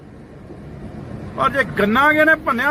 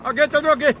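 shouting them away; 3 semitones higher, faster than usual. Real, not acted. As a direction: chase them off with a yell. Shooing people off his field.

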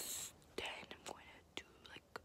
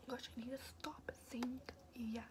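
whisper. Real, not acted. Vlogger scolding herself for saying yeah, whispered. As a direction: breathe it out with no voice. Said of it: "I'm whispering".

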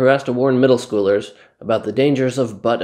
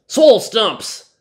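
hyped announcer; 9 semitones higher, 8 dB louder than usual. Acted. Announcing his fitness series.

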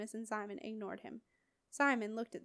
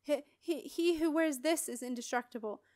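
boastful villain; 4 semitones higher, 4 dB louder than usual. Acted. Marin boasts about the ring.

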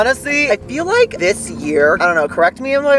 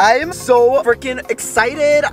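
slow, higher-pitched excited declaration; 4 semitones higher, slower than usual. Real, not acted. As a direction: draw it out, thrilled. Still thrilled after ordering.

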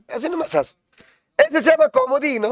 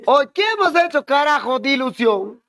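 exasperated surprise; 3 semitones higher than usual. Real, not acted. Teacher spots his own error.

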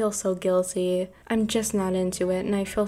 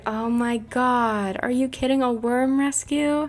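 gushing amazement; 4 semitones higher than usual. Pretend. Gushing over the worm rescue.

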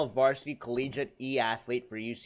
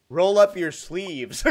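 slow, loud mock advice; 4 semitones higher, 6 dB louder, slower than usual. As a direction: lay it down like a bro. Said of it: "the top comment will be like".

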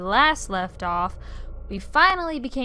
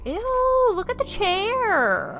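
disgusted; 11 semitones higher, 4 dB louder, slower than usual. Real, not acted. Reacting to gross chair in game.

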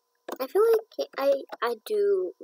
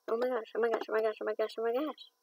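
excited; 4 dB quieter, faster than usual. Real, not acted. Disbelief at buying horse.

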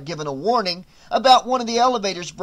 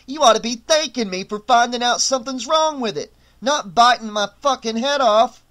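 Aldous arguing; 5 semitones higher, 3 dB louder than usual. A narrator's reading. Aldous argues back.

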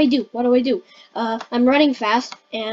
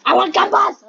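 higher-pitched eager exclamation; excited demand; 6 semitones higher, 3 dB louder, faster than usual. Pretend. Player demanding candy in the game, excited demand. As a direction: call out a playful, greedy demand.

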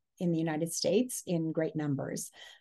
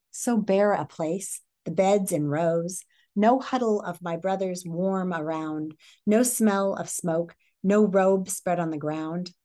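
slow, lonely storytelling; story read-aloud. A narrator's reading. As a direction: let each bare detail land slowly.

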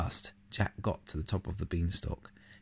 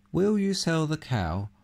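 put-on mild old man voice; 4 semitones higher, 4 dB louder than usual. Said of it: "said the old man".

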